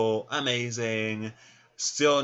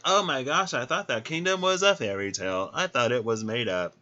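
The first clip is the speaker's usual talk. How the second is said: mock amazement. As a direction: play an awed onlooker, pitched up. Acted awed stranger meeting retainer.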